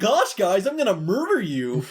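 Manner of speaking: goofy cartoon character voice. Imagining a horror film once the cartoon character enters public domain: Mickey Mouse voice. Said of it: "a goofy horror film where he's like".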